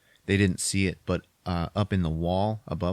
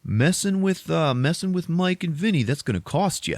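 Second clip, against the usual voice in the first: high-pitched teasing jock; bully taunt; 7 semitones higher than usual. Retold or imitated. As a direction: sneer it up like a smug teen bully. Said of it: "And they're like".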